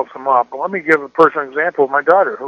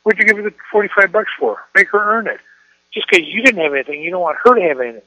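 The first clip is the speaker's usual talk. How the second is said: higher mock wife scolding; imitating the wife; 5 semitones higher, faster than usual. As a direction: parody his wife's complaint, high and quick at the end. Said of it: "between me and Liv".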